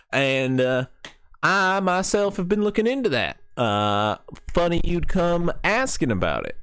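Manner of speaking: a hint of the folksy hunter; lightly voiced frontier woman. Owner telling the party about the hollering, lightly folksy.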